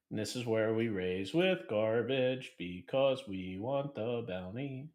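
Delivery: sing-song voice. Real, not acted. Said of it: "I like your sing-song voice".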